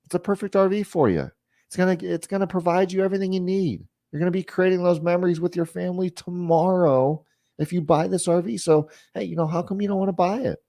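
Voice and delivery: brisk, easygoing sales pitch; matter-of-fact. Shown as a demonstration. Salesman casually coaxing a customer to buy, matter-of-fact. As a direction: keep it light and quick, no pressure. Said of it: "hey, matter of factly".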